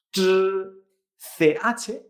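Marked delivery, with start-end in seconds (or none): 0.1-0.2 CH buzzed as unaspirated zh; vibration without air. Shown as a demonstration. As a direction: hold the air back on CH, just buzz it. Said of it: "vibración sin aire".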